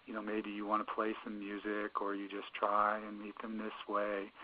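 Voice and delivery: gently placate, keeping the voice right down; calm, placating. Shown as a demonstration. Therapist trying to calm an upset teenager, calm and placating. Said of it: "with a very calm and placating voice".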